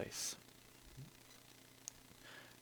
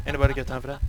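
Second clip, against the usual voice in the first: meme quote voice; 5 semitones higher, 8 dB louder, much faster than usual. Retold or imitated. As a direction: repeat the meme line in a put-on voice. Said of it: "meme quote repeated".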